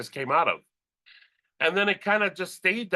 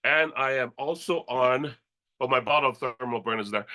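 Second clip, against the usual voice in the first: ordinary talk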